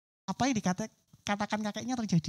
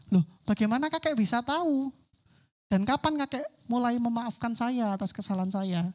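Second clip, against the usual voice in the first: surprised grandchild. Acted. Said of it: "cucunya ini kaget".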